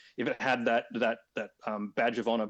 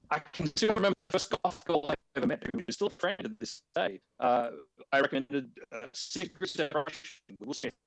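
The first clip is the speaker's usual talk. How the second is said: audio dropping out mid-sentence; choppy, breaking-up connection; corrupted glitchy audio; 4 semitones higher than usual. Real, not acted. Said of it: "your audio's cutting out".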